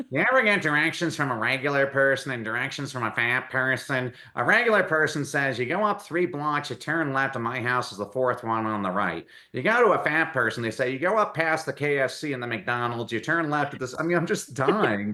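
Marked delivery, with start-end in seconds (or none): 0.1-13.9 nasal, nasally put-on impression voice. The speaker retells a favorite woman comedian's joke in her nasally voice. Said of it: "She she had this nasally voice".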